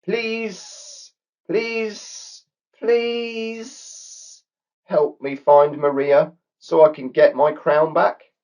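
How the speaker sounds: a desperate cartoon snake begging for help; snake pleading. A narrator's reading. Snake pleading with Brooke and Coco, high whiny snake voice. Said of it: "before pleading with Brooke and Coco".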